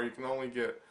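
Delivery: usual speaking voice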